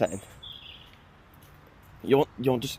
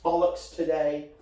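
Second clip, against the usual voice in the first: slightly raised mock cat voice; pet cat's voice; 5 semitones higher than usual. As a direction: lightly voice a demanding cat talking to Dad. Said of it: "He's like".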